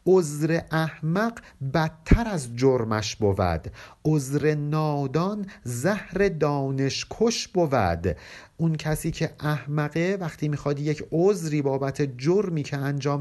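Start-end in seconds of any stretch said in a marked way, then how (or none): 0.1-8.2 slow, measured verse reading; poem recitation. Acted. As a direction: chant each line of the couplet slowly. (خوانش آهسته و موزون شعر)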